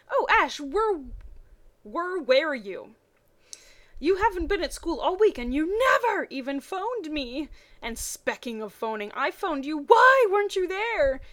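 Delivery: rising to an indignant squeal; excited Misty. Acted. Misty scolding Ash for not phoning, excited.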